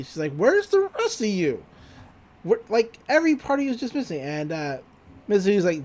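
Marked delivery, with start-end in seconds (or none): 0.3-4.2 higher-pitched mock dismay; lightly acted shock, pitched up; retold alarm. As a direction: retell it as alarmed, incredulous questioning. Acted alarm at missing body.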